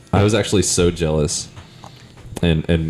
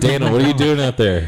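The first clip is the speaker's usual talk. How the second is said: calling out; 7 semitones higher than usual. Real, not acted. Calling out to noisy Dana.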